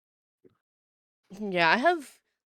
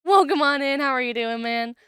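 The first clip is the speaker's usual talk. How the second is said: high, bright cheery greeting; sudden chipper shop-counter welcome; customer service voice; 12 semitones higher, 7 dB louder than usual. Real, not acted. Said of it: "I just promptly pull out my customer service voice".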